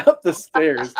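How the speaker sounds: laughing through the words; can't hold back the giggles; slowed words breaking into laughter. Real, not acted. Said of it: "just dying laughing".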